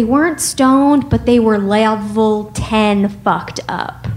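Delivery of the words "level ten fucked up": level ten fucked up in a slipping Russian accent. Real, not acted. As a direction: let the Russian accent slip out, slow. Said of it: "Did you hear my Russian accent come out there?".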